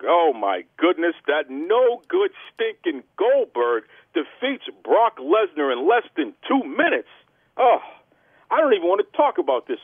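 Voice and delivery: emphatic, disgusted wrestling commentator; wrestling news rant. Acted. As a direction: punch key words as you rant to the fans.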